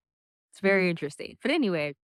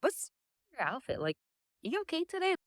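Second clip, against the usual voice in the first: blunt French mock; 9 semitones higher, 6 dB quieter than usual. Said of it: "The French are not like that. They're like".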